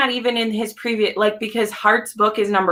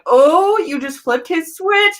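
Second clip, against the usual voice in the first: high, loud thrilled realisation; excited gasp; 9 semitones higher, 3 dB louder, slower than usual. Retold or imitated. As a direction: squeal as the switch flips. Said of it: "you're just like".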